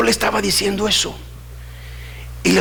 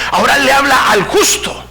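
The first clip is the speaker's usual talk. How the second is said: urgent, raised pulpit voice; forceful preaching; 7 semitones higher than usual. Real, not acted. Preacher warning church to correct sinning brothers, forceful. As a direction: preach it hard, voice lifted high.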